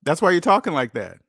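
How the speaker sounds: loud emphatic repeat. Real, not acted. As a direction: hit it hard like a verdict.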